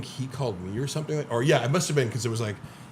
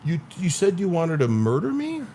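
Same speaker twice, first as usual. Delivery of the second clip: confrontational; 5 semitones higher than usual. Retold or imitated. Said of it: "I get up in his face".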